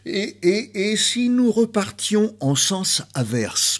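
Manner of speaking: high-pitched, stammered restart; playfully repeated first word, pitched well up; playful stutter. Pretend. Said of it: "bégaiement gracieux".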